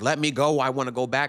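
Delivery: put-on child voice, loud hooting and hollering, protesting. Retelling being driven away as a kid: imitating a screaming child. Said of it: "I'm hooting and hollering in that motherfucker".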